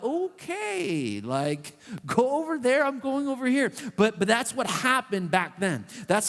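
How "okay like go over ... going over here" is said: weirded-out brush-off. Retold or imitated. Reacting to a mourner in town.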